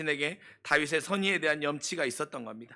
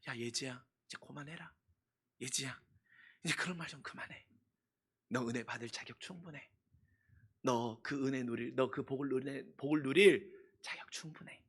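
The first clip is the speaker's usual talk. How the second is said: gentle reassurance. Pretend. God voiced answering gently. (부드럽게 달래는 하나님의 목소리)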